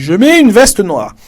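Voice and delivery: high, slow and carefully spaced; slow example sentence. Shown as a demonstration. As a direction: say it slowly like a model answer for learners. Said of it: "Par exemple, moi, je dis". (phrase modèle lente et haute)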